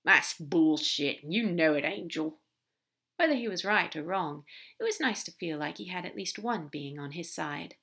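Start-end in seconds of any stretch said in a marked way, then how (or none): 0.0-2.4 loud, indignant, drawn-out opening; slow indignant protest, held in check; biting back anger. Acted. Crowley protesting to his angel, restrained anger. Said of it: "Crowley bit back a swear".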